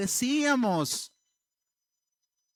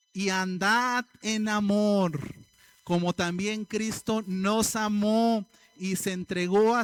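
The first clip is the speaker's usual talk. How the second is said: scripture reading. Acted. Reads Ephesians verse aloud.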